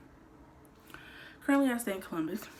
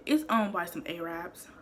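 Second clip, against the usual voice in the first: talking through a cookie; chewing while speaking; mouth full. Real, not acted. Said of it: "I'm eating these big old cookies".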